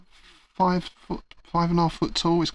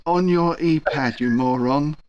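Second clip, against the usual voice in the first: exasperated put-down; 4 semitones higher, 3 dB louder, slower than usual. Acted. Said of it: "The gentleman sighs, says".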